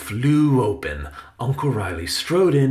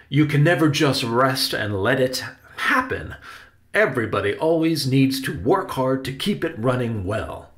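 earnest actor uncle, pitched up and projected; projected, heartfelt uncle voice; earnest Uncle Riley; 4 semitones higher, 5 dB louder than usual. Acted. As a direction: explain it to a nephew with stage projection. Uncle advises Benny about theater.

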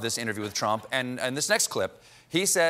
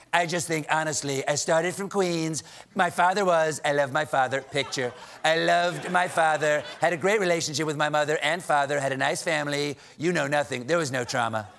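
Donald Trump. Acted.

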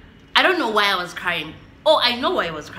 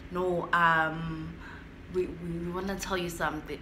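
hushed, stammering, softer confession; low voice; 6 dB quieter than usual. Retold or imitated. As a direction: hesitate and keep it low, a little afraid. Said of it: "their voices are so low".

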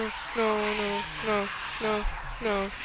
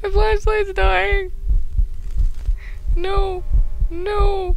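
higher, louder, slow panic; panicked; 9 semitones higher, 6 dB louder, much slower than usual. Real, not acted. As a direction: wail it in rising fear. Repeats higher, louder, slower.

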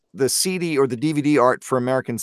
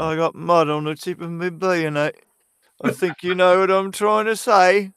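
character voice on request; 5 semitones higher than usual. Shown as a demonstration. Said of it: "Can you say".

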